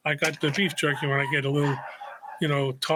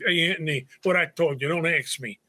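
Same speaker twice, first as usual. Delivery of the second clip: put-on old East New York Brooklyn accent; thick-voweled Brooklyn street talk. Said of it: "the Brooklyn accent".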